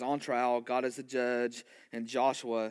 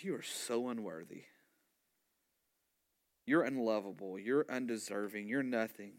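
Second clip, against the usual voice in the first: accusing devil. Retold or imitated. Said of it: "the tone changes".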